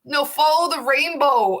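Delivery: high quote broken by laughter; laughing. Retold or imitated. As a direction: laugh through the child's question. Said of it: "she's like".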